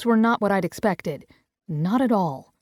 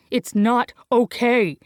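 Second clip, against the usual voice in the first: bellowing; 3 semitones higher than usual. Acted. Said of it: "he bellows".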